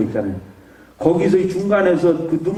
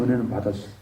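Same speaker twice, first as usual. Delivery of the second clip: "은혜는 받았어요" repeated much lower and softer; quiet echo; 7 semitones lower, 8 dB quieter, faster than usual. Real, not acted. Man quietly affirming to himself that he received grace, "은혜는 받았어요" softly.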